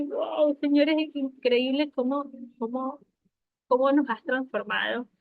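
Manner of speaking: a touch of breathless awe; awed wonder. Retold or imitated. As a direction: marvel at what God did. Retold awed prayer.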